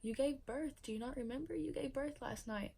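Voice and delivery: imitating mom. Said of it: "And my mom was like".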